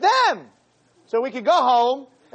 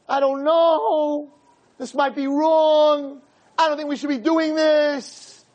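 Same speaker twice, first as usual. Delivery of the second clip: put-on slow, higher, unsure girl's voice; hesitant girl; 4 semitones higher than usual. Girl telling the boy she's unsure, slow and higher. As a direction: drag it out like a girl having doubts.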